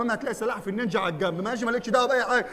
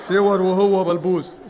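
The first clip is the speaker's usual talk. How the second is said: slow; 3 semitones lower, 5 dB louder, much slower than usual. Acted. Mocking repeat, drawn out.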